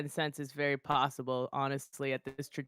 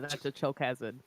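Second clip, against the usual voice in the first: munching popcorn; 4 dB quieter than usual. Real, not acted. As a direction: still chewing popcorn while talking. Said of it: "I'm eating popcorn right now".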